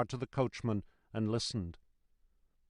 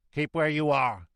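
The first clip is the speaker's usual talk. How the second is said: raised, firm calling voice; called order; 3 semitones higher, 5 dB louder than usual. A narrator's reading. Guard to the voice in the mist, called order. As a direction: order the stranger to halt. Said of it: "the guard called to the voice".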